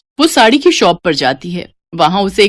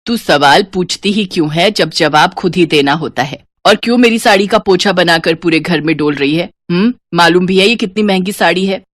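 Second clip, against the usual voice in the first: lower, firm nagging voice; scolding mother; 2 semitones lower than usual. Acted. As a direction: tell her off for the sari. (डाँटती माँ, भारी आवाज़)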